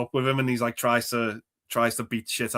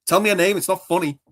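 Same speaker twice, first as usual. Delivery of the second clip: raised-pitch retold demand; mock pissed off; 8 semitones higher, 5 dB louder than usual. Film fan acting out her anger about a dream, pissed off. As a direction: imitate an annoyed wife, high and louder. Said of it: "really, like, getting pissed off at him".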